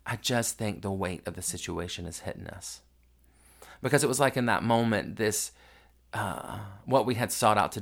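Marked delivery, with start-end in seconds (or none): 0.0-2.8 slightly lowered, softer solemn reply; understated gravity, retelling a serious remark. Retold or imitated. Answering dad's joke after the crying, mildly solemn. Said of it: "I just so solemnly say".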